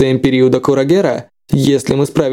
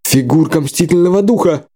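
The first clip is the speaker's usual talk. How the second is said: stammering; 2 semitones higher than usual. Acted. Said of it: "заикаясь, всполошился Бассайн".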